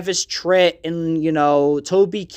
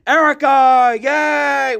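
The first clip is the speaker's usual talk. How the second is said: higher, louder silly yay; mock cheer; 8 semitones higher, 4 dB louder, much slower than usual. Inside joke aside to listeners, sudden goofy cheer. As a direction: burst out with a goofy little cheer.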